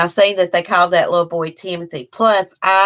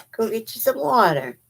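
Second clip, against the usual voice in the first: higher, softer coaxing; gentle pet talk; 5 semitones higher, 3 dB quieter than usual. Real, not acted. Owner sending her dog for water, gentle coaxing.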